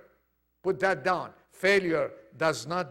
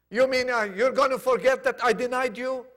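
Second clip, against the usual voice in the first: high, louder disbelieving question; incredulous question; 6 semitones higher, 5 dB louder than usual. Retold or imitated. Peter asking Jesus about his denial, incredulous question. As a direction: ask it pitched up, in disbelief.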